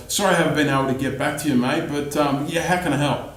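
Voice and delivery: gabbled apology, fast then trailing; mock overworked salesperson brushing off a customer; rushed, unenthusiastic. Shown as a demonstration. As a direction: rush through it like you're too busy.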